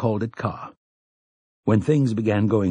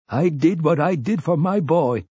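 higher-pitched, stubborn self-defense; 7 semitones higher than usual. A narrator's reading. Cornered man defends betraying others for his son, stubborn. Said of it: "he said stubbornly".

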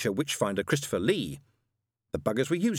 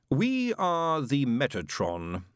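slow, higher, drawn-out proclamation; grand heavenly voice; 4 semitones higher, much slower than usual. Acted. Voice of God introduces itself to the angel, grandly. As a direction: stretch it out like a celestial announcement.

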